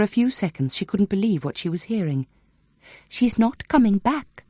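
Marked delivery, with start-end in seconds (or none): 3.1-4.4 higher, slow, uncanny certainty; eerie and menacing. A narrator's reading. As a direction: deliver it like a cold prophecy. Possessed Claire speaking menacingly.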